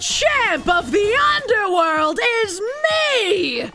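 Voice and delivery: bountiful wrestler. Acted. Big Bull challenges the evil king, booming wrestler. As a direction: brag it like a ring champ. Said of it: "do the more, like, fucking bountiful".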